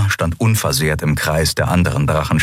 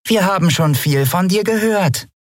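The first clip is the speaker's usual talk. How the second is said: much higher, loaded remark; meaningfully; 12 semitones higher than usual. Acted. Nelen greeting Lien with suspicion, meaningful. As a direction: let the meaning hang. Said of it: "sagte die Yadi bedeutungsvoll".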